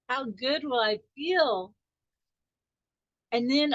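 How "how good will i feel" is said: slow savoring question. Shown as a demonstration. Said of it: "the clincher".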